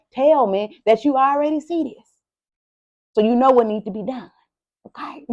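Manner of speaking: preaching to Gemini with mounting fervor; preacher mode. Acted. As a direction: testify like a preacher at the pulpit. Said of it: "I feel like I'm a preacher".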